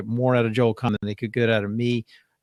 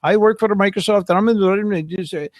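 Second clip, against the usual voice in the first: a lightly put-on caller voice, higher and slowed; mimicking scam caller; 8 semitones higher, 3 dB louder than usual. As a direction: play the fake Microsoft caller, a bit higher and slower. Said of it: "she just got sucked into the guy saying".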